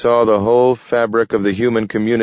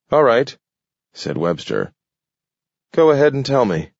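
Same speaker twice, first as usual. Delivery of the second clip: higher, fast, disbelieving; skeptical; 6 semitones higher than usual. A narrator's reading. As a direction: say it knowing he won't. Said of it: "The tone of his voice said he knew Joe wouldn't".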